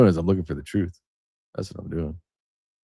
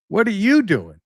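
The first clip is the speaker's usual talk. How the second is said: higher, animated ribbing voice of a friend; mocking friend; 9 semitones higher than usual. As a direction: tease him like a buddy laughing at you. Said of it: "And he's like".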